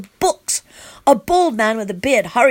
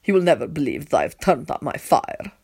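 calm; 5 semitones lower than usual. A narrator's reading. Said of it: "he says calmly".

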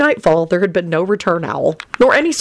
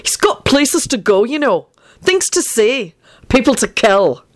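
high, listing intonation with pauses; mocking, pitched up; sardonic; 6 semitones higher than usual. A narrator's reading. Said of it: "Benji intoned sardonically".

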